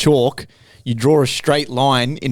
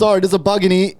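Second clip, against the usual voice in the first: panicked; 4 semitones higher than usual. Real, not acted. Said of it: "That full panic".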